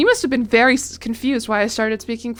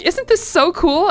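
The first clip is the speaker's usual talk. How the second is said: roommate's gushing; 8 semitones higher, 6 dB louder, slower than usual. Retold or imitated. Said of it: "And she's like".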